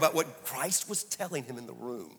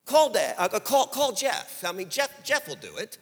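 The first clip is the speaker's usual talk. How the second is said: panicked inner thought; 8 semitones higher, 7 dB louder than usual. Retold or imitated. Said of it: "I thought".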